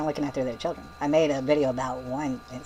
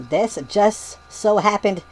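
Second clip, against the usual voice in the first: mock yelling; 3 semitones higher, 4 dB louder, slower than usual. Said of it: "and then she says".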